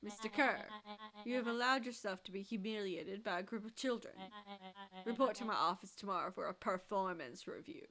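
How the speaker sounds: icy boss dressing down; cold villain reprimand. Acted. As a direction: belittle the underling coldly. Villain scolds Kerr.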